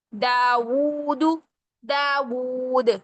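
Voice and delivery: दाऊद drawn out slowly, falling; slow recitation. Shown as a demonstration. Recitation drill words. (धीमी तिलावत)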